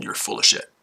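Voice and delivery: hushed, breathy taunt; whispered jab. Real, not acted. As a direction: whisper it like a secret insult. Taunting a troll in chat.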